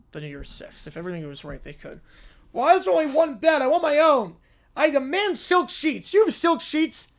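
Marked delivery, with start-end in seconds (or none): 2.5-7.1 high, loud, demanding princess; spoiled little princess. Acted. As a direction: act like a spoiled tiny princess who is owed everything.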